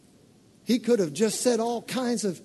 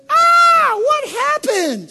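high shrieking gasp, much louder and slow; wife screaming at the sight of blood; horrified wife's high shriek; shocked wife; 10 dB louder, much slower than usual. Retold or imitated. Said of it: "his wife looks at him".

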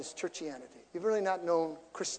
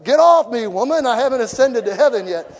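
loud, higher mock exasperated Jesus; hammed-up brush-off; Jesus pushing off; 5 semitones higher, 14 dB louder than usual. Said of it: "Mary's on her like".

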